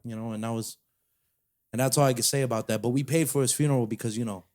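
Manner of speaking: lightly played New York mobster bragging as Uncle Danny; New York mafia accent. Telling a cohost about Uncle Danny in a light New York mafia accent. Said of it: "in a weird little accent".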